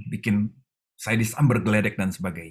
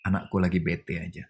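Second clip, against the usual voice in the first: calm reassurance; 4 semitones lower, 4 dB quieter than usual. Retold or imitated. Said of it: "Tuhan tetap bilang gini".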